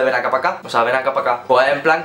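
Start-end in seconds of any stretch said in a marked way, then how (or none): 0.0-0.6 Andalusian Spanish. Shown as a demonstration. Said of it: "cosas de mi acento". 0.8-1.4 Andalusian Spanish. Shown as a demonstration. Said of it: "cosas de mi acento".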